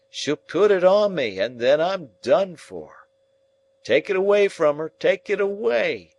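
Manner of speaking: high, loud shriek of terror; panicked cry. Acted. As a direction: beg them to take the shroud away. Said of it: "Next he cries".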